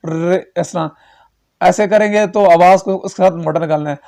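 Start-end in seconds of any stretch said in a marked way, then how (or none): 0.1-0.9 rolled ر- buzzing like a rail; trilled r like a train. Shown as a demonstration. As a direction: roll the ر- like a train. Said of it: "جیسے rail کی آواز".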